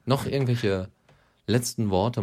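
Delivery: tired voice starting to fail; strained voice cracking a little; voice giving out. Real, not acted. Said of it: "Meine Stimme versagt nämlich langsam gerade". (versagende Stimme)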